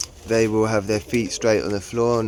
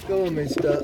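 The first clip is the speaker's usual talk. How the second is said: higher-pitched coaxing to a bird; coaxing pet talk; 7 semitones higher than usual. Real, not acted. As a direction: coax a pet along, pitched up. Coaxing a pigeon along.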